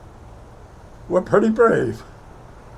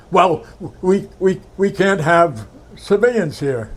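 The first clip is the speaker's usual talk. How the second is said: a raised, firmer officer's voice, lightly played; imitating his officer; 4 semitones higher, 4 dB louder than usual. Officer tells the young sergeant he can't stay, lightly mimicked. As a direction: state the rule like the officer did. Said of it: "I do a good imitation of him".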